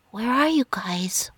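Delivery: urgent whispered question; hushed, breath-only whisper. A narrator's reading. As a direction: whisper into a hidden earbud. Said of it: "whispered Olivia".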